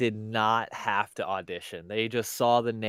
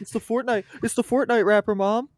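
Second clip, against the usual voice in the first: put-on excited kid; 11 semitones higher, 9 dB louder than usual. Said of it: "imitating a kid yelling to mom".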